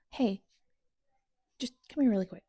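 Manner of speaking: unvoiced whisper, hurt. Real, not acted. Reader whispering a hurt complaint to the author, whispered.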